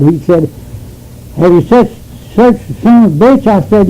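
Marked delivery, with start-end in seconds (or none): 1.4-3.5 mildly angry, emphatic demand; an irritated challenge, lightly acted out; retold mad questioning. Angry man checking that the prisoner was searched, mildly mad.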